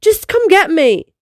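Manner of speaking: insist, mildly cross; understated huffy dragon demanding a pickup. Acted. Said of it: "she demanded".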